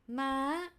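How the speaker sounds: "Ma" lifting from mid to high like a question. Shown as a demonstration. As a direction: raise "Ma" like "huh?". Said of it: "it's like when you say".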